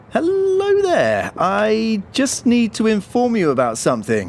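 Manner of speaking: fake phone voice. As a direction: put on a show of calling the boss. Fake phone call for show.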